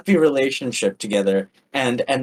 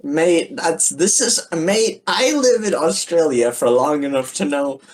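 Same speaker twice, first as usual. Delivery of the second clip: unconvincing Australian, insisting it's genuine; dubious Australian accent. Pretend. Defending the accent to a doubting co-host, dubious Australian. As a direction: defend your badly faked Australian accent. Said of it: "I don't think this is an Australian accent".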